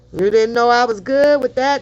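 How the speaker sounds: plain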